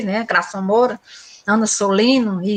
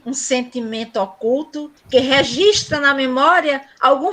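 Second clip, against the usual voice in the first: measured poetic reading; cordel recital. Acted. Teacher reciting the cordel blurb for the class. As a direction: recite the verses with a steady rhythm. Reads cordel book intro aloud.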